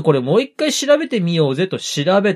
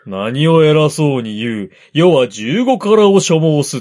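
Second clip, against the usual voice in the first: haughty lord voice; 2 semitones lower, 4 dB louder than usual. Retold or imitated. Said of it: "そんな偉そうなこと言うわけがないでしょ".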